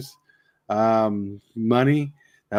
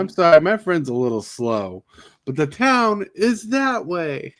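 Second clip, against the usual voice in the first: movie quote; 6 semitones higher than usual. Retold or imitated. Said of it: "little quotes from the movie".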